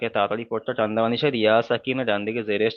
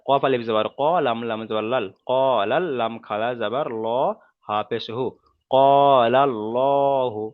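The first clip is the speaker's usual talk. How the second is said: spelling drill. Shown as a demonstration. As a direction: spell it out deliberately for learners to follow. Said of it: "প্রথম বানান করলাম". (ধীরে ধীরে আরবি বানান করে পড়া)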